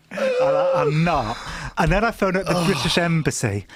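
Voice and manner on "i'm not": very high mock-squeaky protest; squeaky denial. Husband protesting to teasing wife, squeaky high denial. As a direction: shoot way up into a squeak to deny it. Denying wife's teasing, pitched up.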